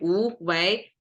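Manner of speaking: 无为 said with two rises; rising tones on 无为. Shown as a demonstration. Teacher showing the rhythm of the previous two, rising tones on 无为. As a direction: lift each syllable of 无为 upward. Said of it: "previous two already rising tone".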